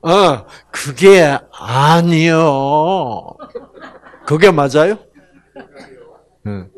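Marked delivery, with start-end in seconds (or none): 0.0-5.0 very slow, laughing Chungcheong drawl; Chungcheong dialect. Acted. Preacher voicing God, slow Chungcheong accent. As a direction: stretch 그게 아니요 out slowly. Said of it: "충청도에서는".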